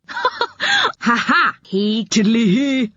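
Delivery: high, giggling singsong taunt; mocking laugh. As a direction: laugh at the soaked boy. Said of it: "Joe laughed loudly".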